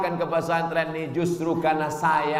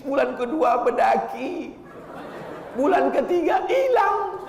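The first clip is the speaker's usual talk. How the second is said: a father telling the preacher his wife's woes, rising mock wail; retold complaining father; 5 semitones higher than usual. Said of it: "Ada jamaah kita".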